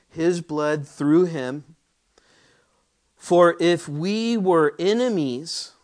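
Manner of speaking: slow, emphatic Bible reading rising to full force; preaching scripture. Acted. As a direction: lean into every word of the verse like a pulpit sermon. Preacher reads Romans aloud, building.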